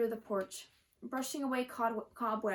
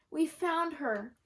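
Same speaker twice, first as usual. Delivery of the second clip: slow, louder cheer, higher; 4 semitones higher, 4 dB louder, slower than usual. A narrator's reading. Girl hops up and down after finding the cat, cheering. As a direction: celebrate the find out loud. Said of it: "Gracie cheered".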